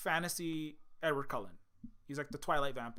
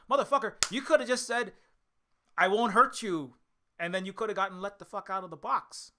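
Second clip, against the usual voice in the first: exasperated retort; 3 semitones higher, 6 dB louder than usual. Retold or imitated. Vlogger mock-yelling at Sandman, exasperated. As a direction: yell it like you can't believe him. Vlogger yells back at character.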